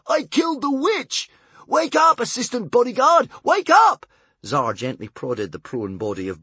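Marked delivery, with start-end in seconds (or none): 0.1-4.1 high, loud triumphant yelling; crowing over his victory; joyful shouting. A narrator's reading. Tsar shouting at the fainted bodyguard to wake up, triumphant. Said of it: "in his joy".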